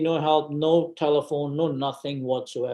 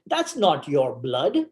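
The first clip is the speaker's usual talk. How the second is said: slow, deliberate delivery in his usual pitch; slow punchline; slower than usual. Retold or imitated. Nurse revealing the truth to the patient, retold slowly and deliberately.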